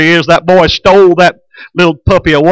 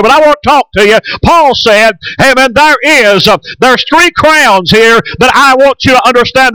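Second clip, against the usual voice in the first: rising preaching voice; 3 semitones higher than usual. Acted. Preacher launching his sermon to the congregation, rising fervor. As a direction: lift it into the sermon proper, building.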